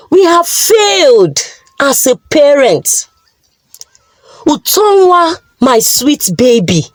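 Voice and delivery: mild sorrowful voice; grieving husband. Acted. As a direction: mourn what the wife did. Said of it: "with so much grief".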